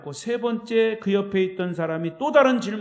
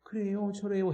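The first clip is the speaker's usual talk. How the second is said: lifted Seoul-style polite endings; Seoul speech; 4 dB quieter than usual. Shown as a demonstration. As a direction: lightly imitate Seoul standard speech. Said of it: "아무리 서울말". (서울말 흉내)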